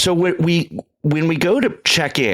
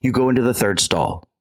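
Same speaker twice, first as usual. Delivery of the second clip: lightly imitated Jamaican accent; a hint of Jamaican accent, matter-of-fact; Jamaican man. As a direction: give instructions as a mock Jamaican local. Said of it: "he goes".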